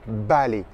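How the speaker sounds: "balai" as Spanish vale with a clear b; V initial comme B. Shown as a demonstration. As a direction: say "balai" as BA-lé, lips closed on the first sound. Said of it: "c'est un B". (« balai » pour « vale », avec un b net)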